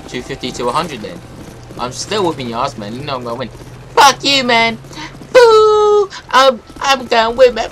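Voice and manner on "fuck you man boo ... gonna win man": high, loud defiance; angry shouting. Acted. Player insisting on winning against rival, angry high shouting. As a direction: yell back defiantly, voice up high. Quarrel over who will win.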